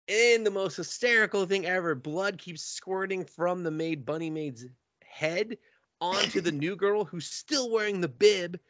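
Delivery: ordinary talk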